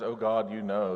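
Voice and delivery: a mild mock accusation, words pushed through the teeth; half-acted bitter reproach; accusing through teeth. Jeremiah accusing God, a touch of anger through his teeth. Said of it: "he is accusing God through his teeth".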